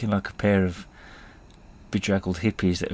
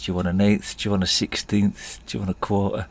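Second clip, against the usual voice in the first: put-on Jamaican accent. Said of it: "the worst Jamaican accent you're ever gonna hear".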